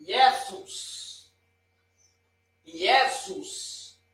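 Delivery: JESUS said as YEH-soos, opening on an I sound; Greek-style "Iesous" for JESUS; Greek pronunciation. Shown as a demonstration. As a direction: start JESUS with a Y glide, stress up front. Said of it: "eu digo Jesus".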